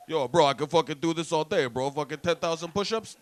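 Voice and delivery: lightly voiced loud push-up braggart; mock bragging. Showing off push-ups in the parking lot, mock bragging.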